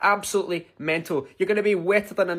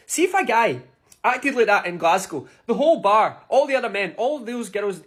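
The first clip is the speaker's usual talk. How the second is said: tag; 6 semitones higher, 5 dB louder than usual. Real, not acted. Indignant rant about Glasgow reaction.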